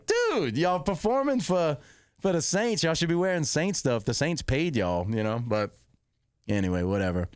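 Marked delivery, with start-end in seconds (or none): 0.0-5.1 high, indignant "Dude" then lighter complaining; exasperated callout. Retold or imitated. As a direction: call the band out, half joking. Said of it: "I was like".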